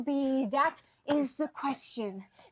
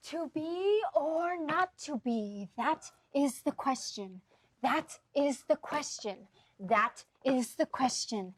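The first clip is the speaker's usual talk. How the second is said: mock recitation. Reciting Hamlet as a game.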